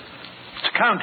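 soft whisper. Acted. Watson recognising the Count, soft whisper. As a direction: hiss the alarm quietly.

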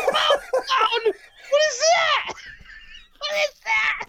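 laughing. Real, not acted. Laughing at the band name.

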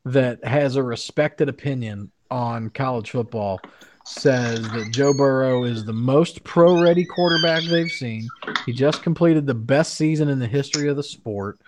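garbled, underwater-sounding audio; underwater gurgling voice. Real, not acted. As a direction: voice gurgling like over a bad connection. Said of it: "it sounds like you're underwater".

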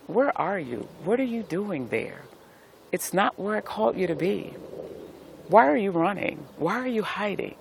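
put-on a loving God gently questioning his child; gentle voice of God. God speaking to the listener.

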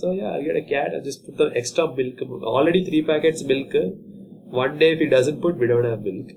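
lightly voiced father grumbling about milk; a hint of a put-upon dad; mocking dad. Son imitating his dad on buying milk for a cat. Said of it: "You think he's gonna get a cat".

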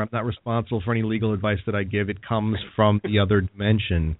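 fast mock legal disclaimer; disclaimer read. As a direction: rattle it off like fine print. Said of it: "here's my disclaimer".

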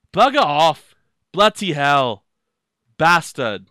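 loud, emphatic English-accented swearing; punchy British swearing, r's dropped. Shown as a demonstration. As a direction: put on an English accent and belt out each curse. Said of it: "you have to do it with the accent".

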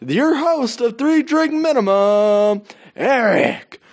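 mock arena announcer, drawn out; sportscaster voice. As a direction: call it like a PA announcer. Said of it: "like a sportscaster".

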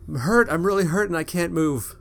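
high, pained cry of a hurt woman; injured woman pleading; afraid and injured. Acted. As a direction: cry out in pain and fear. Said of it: "This voice sounds afraid and injured".

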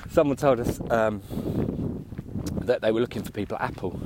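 breathless from climbing a hill; puffing between words; out of breath. Real, not acted. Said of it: "I'm really out of breath".

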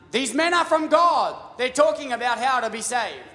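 hammed-up chanting yell; mock yelling. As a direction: cry it out over and over. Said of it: "She was yelling out".

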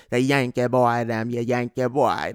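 a loose Jamaican imitation; Jamaican accent. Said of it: "you get the Jamaicans that like the".

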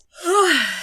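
yawning. Real, not acted. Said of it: "Sorry, I'm yawning a lot".

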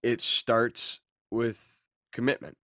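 upbeat fitness coach pitch; peppy workout coach. Pretend. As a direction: sell it like a personal trainer. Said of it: "I know I sound like a personal trainer".

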